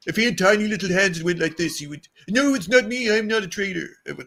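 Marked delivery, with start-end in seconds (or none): 2.3-3.9 lightly voiced Trump denial; Trump impression. Podcaster imitates Rob as Trump denying treason. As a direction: deny it like Trump, a touch higher. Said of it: "You sound a bit like Trump there".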